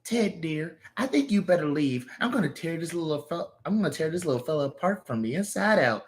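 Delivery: menacing. Acted. Threatening menace.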